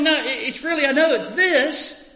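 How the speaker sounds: Paul defending himself, mild earnest plea; Paul insisting. Retold or imitated. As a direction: press the point gently, as Paul. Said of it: "Paul said".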